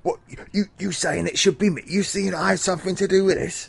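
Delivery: put-on a dodgy London geezer protesting his innocence in a London accent; shifty London accent. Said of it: "exactly the accent that Agatha Christie had".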